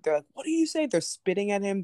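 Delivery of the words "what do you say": high mock challenge; imitating yelling. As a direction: taunt him in a raised voice. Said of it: "They're yelling at him".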